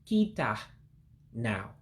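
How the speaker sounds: teacher sounding out a word; slow demonstration. Shown as a demonstration. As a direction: say it slowly for learners. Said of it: "gonna say it slowly".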